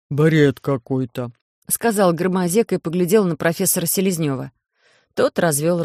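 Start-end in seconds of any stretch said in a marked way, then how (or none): 0.1-1.3 могучий инопланетянин, говорит громче и очень медленно; весомо, с расстановкой, громко; гулкий медленный бас Громозеки. Acted. Голос Громозеки. (Громозека, громко и очень медленно)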